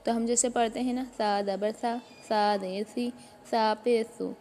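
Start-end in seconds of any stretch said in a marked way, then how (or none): 1.2-4.3 "सा" said thin and light, as English th in "think"; soft lisped th in "सा", never heavy; thin, soft tha. Shown as a demonstration. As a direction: say "सा" with the tongue tip at the teeth, no whistle. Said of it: "इसको बारीक पढ़ना है".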